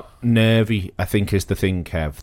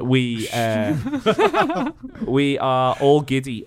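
laughing; 2 semitones higher, much slower than usual. Real, not acted. Host laughing, giddy with happiness.

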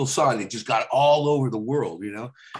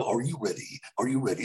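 trailer voice; 2 semitones lower, 5 dB quieter than usual. Shown as a demonstration. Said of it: "first it starts off".

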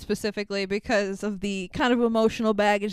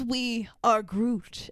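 slow, lightly voiced solemn creature; Groot; much slower than usual. Groot's last words to Rocket, slow and solemn. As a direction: say it slowly, a hint of the character's weight. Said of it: "And then he says".

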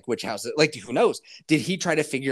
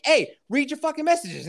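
high, mildly raised mock yell; retold urgent demand; 10 semitones higher, 3 dB louder than usual. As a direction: imitate an exasperated phone call. Retold urgent call to partner.

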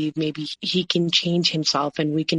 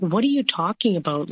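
incredulous quoted comeback, pitch swooping up; mock-baffled protest; retold bafflement; 3 semitones higher than usual. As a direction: throw the accusation back, bewildered. Retold baffled reply to an accusation.

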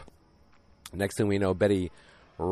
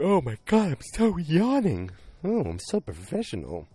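mock bored doctor; 10 semitones higher than usual.

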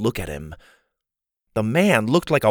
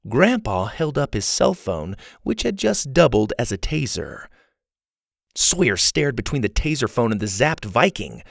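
usual speaking voice

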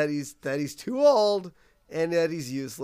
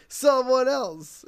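Moe voice; 7 semitones higher, 5 dB louder, slower than usual. Retold or imitated. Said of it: "Mo's like".

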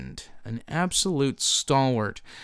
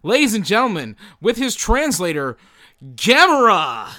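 grand announcer intro; 7 semitones higher, 13 dB louder than usual. Acted. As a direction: boom out the guest's name like a ring announcer.

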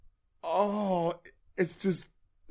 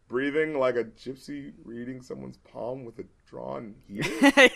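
softer start, then "heater?" leaps up with a laugh; incredulous reread; 2 semitones lower, 4 dB quieter than usual. Shown as a demonstration. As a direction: reread the line in disbelief. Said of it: "it's like, wait".

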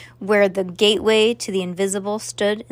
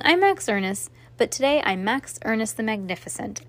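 usual speaking voice

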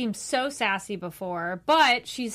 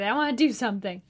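excited. Retold or imitated. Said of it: "He was so excited".

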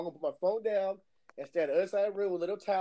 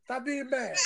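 lightly mimicked protest, higher pitch; Daniel; 5 semitones higher than usual. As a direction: imitate him objecting, pitched up. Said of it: "he got mad at you for getting mad at him".

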